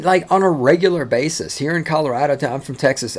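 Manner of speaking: ordinary talk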